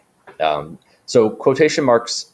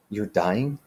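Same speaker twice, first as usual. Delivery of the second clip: shocked question; 2 semitones higher, 5 dB quieter than usual. Shown as a demonstration. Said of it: "Daniel gasped." He goes".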